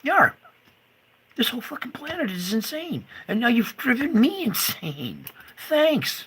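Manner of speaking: high, loud furious rant; real outrage. Real, not acted. Vlogger blaming the insane world, furious. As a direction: throw the blame at the whole planet.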